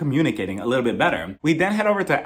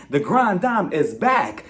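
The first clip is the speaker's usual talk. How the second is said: grand announcement; much slower than usual. Retold or imitated. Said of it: "ended her speech by saying".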